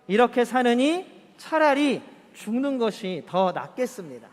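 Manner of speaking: slow, measured reading aloud; slow unison Bible reading; scripture reading. Acted. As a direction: read it out together at an even pace. Congregation reads scripture aloud.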